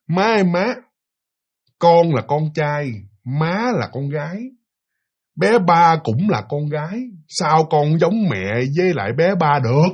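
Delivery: giọng trẻ con tập nói, chậm rãi; nhại nhẹ giọng bé tập nói ngọng nghịu; giọng con nít. Retold or imitated. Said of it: "giọng của con nít mà tập tành nói". (đứa con nói với mẹ trong mơ, giọng bé con chậm)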